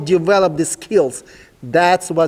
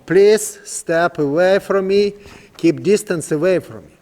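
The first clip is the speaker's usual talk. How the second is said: slower, drawn-out request with stress on please; slow, calm command. Shown as a demonstration. Trainer asking the young horse to keep his distance, slow and calm. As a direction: spell it out slowly so the horse understands. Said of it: "That's simple right now".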